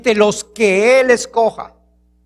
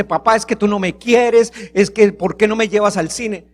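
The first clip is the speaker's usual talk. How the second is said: put-on angry child. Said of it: "el niño se enoja y dice".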